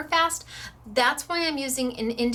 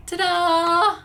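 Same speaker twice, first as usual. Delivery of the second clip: excited ta-da; 7 semitones higher, 8 dB louder than usual. Real, not acted. Showing the finished card.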